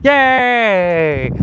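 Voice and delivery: high, loud gleeful yelp of joy; excited yay. Shown as a demonstration. Swinging in the park, squealing yay with joy. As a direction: let out a thrilled little yay. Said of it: "I'd be screaming".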